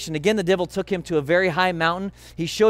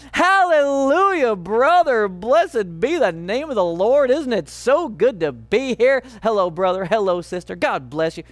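fake churchy greeting; 4 semitones higher, 3 dB louder than usual. Fighting husband greeting congregation with fake holy cheer. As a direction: put on a pious church front. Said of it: "You put on a front".

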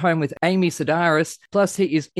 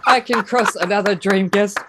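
building into a big hyped announcer shout; hype host intro; 5 semitones higher, 3 dB louder than usual. Acted. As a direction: ramp up like a ring announcer.

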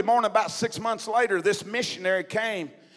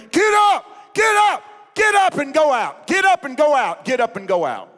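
high, loud shout easing as it repeats; screaming command; 8 semitones higher, 10 dB louder than usual. Retold or imitated. Praying woman commanding a man in her vision, screaming. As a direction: shout it out in urgent prayer. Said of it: "started screaming".

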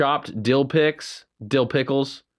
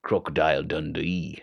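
put-on broad Australian accent; 8 semitones lower, 6 dB quieter than usual. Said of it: "Oh, I like your outback voice".

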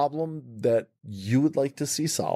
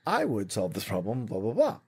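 ordinary talk

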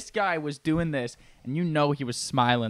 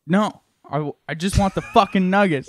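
louder irritated refusal; annoyed robber; 3 semitones higher, 5 dB louder than usual. Acted. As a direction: snap back at the cashier.

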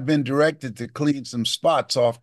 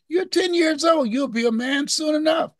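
much higher mock mother voice; mother soothing. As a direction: reassure the boy lightly. Mother soothes her son.

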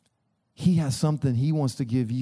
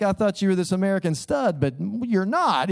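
mock disappointed wife; 5 semitones higher than usual. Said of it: "and she's like".

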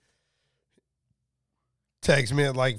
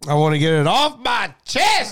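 excited; 8 semitones higher, 7 dB louder than usual. Pretend. Show catchphrase called back.

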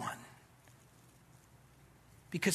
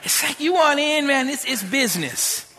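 loud, higher blunt gang recruiter; tough gang talk; 10 semitones higher, 11 dB louder than usual. Retold or imitated. A gang member recruiting young David, loud and blunt. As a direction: bark it like a street recruiter.

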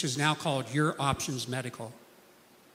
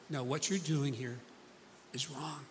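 a breathless whisper, barely audible; hushed whisper of "wrong", voiceless and soft; 2 semitones lower, 10 dB quieter than usual. Acted. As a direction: whisper it like a secret reminder. Quiet reminder at the clinic.

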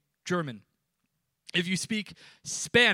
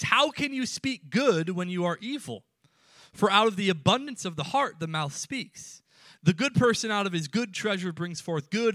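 scripture reading; 3 semitones higher than usual. Acted. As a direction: proclaim the verses to the congregation. Reads Matthew twelve aloud.

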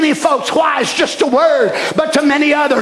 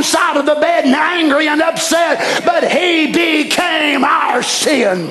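slow, emphatic pulpit cry; full-force sermon delivery; preaching; 5 semitones higher, slower than usual. Acted. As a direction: draw out each word for the congregation.

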